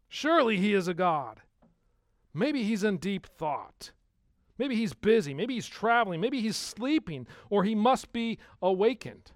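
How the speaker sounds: high, emphatic mock suggestions; taunting. Elijah ridiculing the prophets of Baal, taunting. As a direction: pile up sarcastic guesses, pitched high. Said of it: "Elijah began to taunt them".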